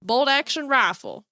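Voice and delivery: imitated country kid reciting; thick country accent. Homeschooled kid reciting creation, imitated thick country accent. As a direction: put on a country boy's accent. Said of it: "like, thick country accent".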